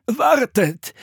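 put-on high, trembling old monk; wavering, high plea to wait; shaky call. A narrator's reading. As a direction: call after them in a quavering voice. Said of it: "rief eine zittrige Stimme".

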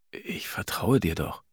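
slow, whispered reassurance. A narrator's reading. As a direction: whisper it gently. Husband reassures softly.

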